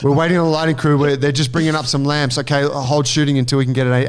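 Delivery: mock set-wide announcement; crew calling out. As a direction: call out a holdup to the whole set. Imitates whole crew calling out.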